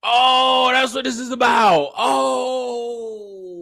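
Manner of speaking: exclaimed aloud as the truth dawns. Real, not acted. Reacting to the preacher's real motive.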